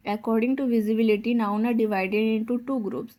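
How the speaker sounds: very slow, word by word; slow dictation. Acted. Teacher dictates a definition to the class, very slowly. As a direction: spell it out at writing speed.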